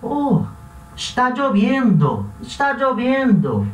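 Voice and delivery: teacher's demo of surprise; surprised. Shown as a demonstration. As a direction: say it as if amazed it's raining. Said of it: "já muda um pouco a entonação".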